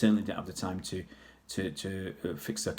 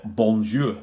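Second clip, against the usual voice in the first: French word in broad northern English vowels; heavy northern English accent; 5 dB louder than usual. Shown as a demonstration. Showing viewers his French put on in a heavy northern English accent. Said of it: "put on this, uh, heavy northern accent".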